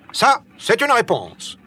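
high, slow exclamation; exclaiming. A narrator's reading. Nicole retorts to Michel's answer, exclaiming. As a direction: exclaim it, drawing the words out. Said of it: "s'écrie Nicole".

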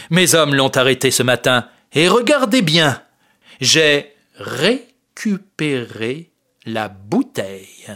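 drawn out, syllable by syllable; slow, every syllable stressed. Acted. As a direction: savour each syllable slowly. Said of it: "Il prononce ces mots lentement en insistant sur chaque syllabe".

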